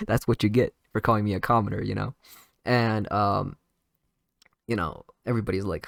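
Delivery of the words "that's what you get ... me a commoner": fast, louder gloating through a laugh. Retold or imitated. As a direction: cackle out the gotcha, fast. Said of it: "Asta starts laughing".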